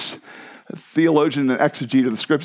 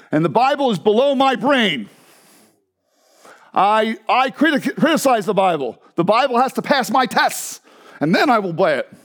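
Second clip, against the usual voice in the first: higher, emphatic imitated German accent; 4 semitones higher than usual. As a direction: lecture like a German scholar, accent thick. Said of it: "she was a thick German accent".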